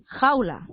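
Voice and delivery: "jaula" as two syllables, jau-la; vowels kept together. Shown as a demonstration. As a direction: say "jaula" with a and u joined in one syllable. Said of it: "tú de repente lo separas así".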